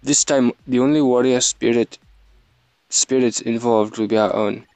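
put-on faltering go at an African accent; attempted Wakandan accent. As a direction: try the Wakandan accent, not quite getting there. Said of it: "Yeah, I can't do it".

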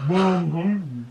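high, squeaky little complaint; hungry rat. Shown as a demonstration. Rat begs from the closet, whining. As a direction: whine it as a cartoon rat.

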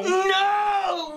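high, long, angry wail. Acted. Someone tried to take your Red Bull, angry refusal. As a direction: yell it out high and drawn out in anger. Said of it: "Less angry and more".

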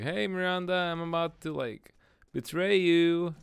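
mock shouting. Player imitating a game character announcing betrayal, mock shouting. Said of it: "He's l-, literally just shouting".

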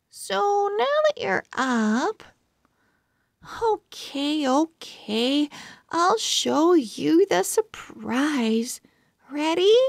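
put-on high, eager girl; bright girl building up a surprise; excited girl voice. Girl awake, showing surprise.

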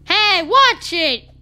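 slow, loud warning yell; slow angry shout. Real, not acted. Yelling at passing drivers.

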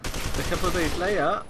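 sore, hoarse throat; talking through a sore throat. Real, not acted. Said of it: "as you can tell".

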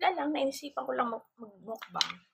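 chewing while talking; words muffled by food; mouth full of mussel. Real, not acted. Seen 1: Mussel shell at lips, then mouth closed chewing while speaking.

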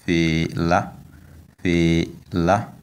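fela rising on the final a; fela, careful demo with lifted la; high final tone. Shown as a demonstration. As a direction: model fela in two syllables, last one high. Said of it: "tone is on the last vowel".

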